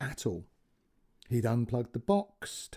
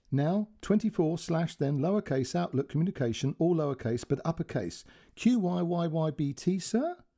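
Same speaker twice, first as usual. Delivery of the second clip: lightly voiced polite operator, higher; careful polite dictation of numbers; a hint of an Indian call centre voice; call centre girl; 5 semitones higher than usual. Call centre girl's quote.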